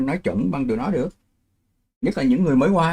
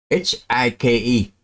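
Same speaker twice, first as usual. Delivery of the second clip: spelled out slowly; slower than usual. Shown as a demonstration. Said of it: "Chú nói bây giờ chữ".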